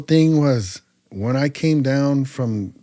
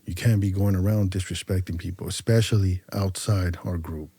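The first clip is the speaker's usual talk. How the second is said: low, softened voice of counsel; retold talking-to, kept low and controlled; earnest warning; 6 semitones lower, 6 dB quieter than usual. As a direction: quietly set a younger brother straight.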